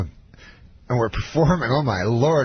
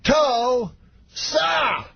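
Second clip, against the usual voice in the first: very high, syllables pulled far apart; Bill Cosby, even slower; 13 semitones higher than usual. Retold or imitated. Star milking the crowd's cheers, exaggeratedly slow high impression. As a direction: drag out TUL and SA with a gap between. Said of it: "every time slower".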